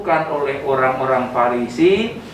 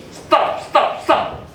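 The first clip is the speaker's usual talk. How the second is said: breathy repeated stop, no voice; whispered stop; 10 semitones higher, much slower than usual. Acted. Pastor urging the congregation to stop judging, whispered. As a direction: hush it out like a plea.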